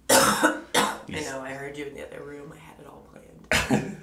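husky whispered sexy voice; breathy put-on sexy whisper. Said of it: "Do you guys like my sexy voice".

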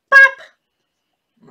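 high, loud comic sound effect; loud bop. Acted. Teacher acting out the rabbit's bop for children.

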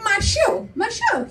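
high Italian-accented imitation of mom; light mimicry of an Italian mother; mother's Italian accent. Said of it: "my mom's like".

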